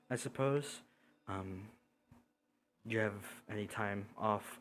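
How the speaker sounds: low, soft, courteous villain; lightly voiced humbled outlaw, hesitant and polite; apologetic bandit lord. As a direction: offer amends quietly, with halting formality.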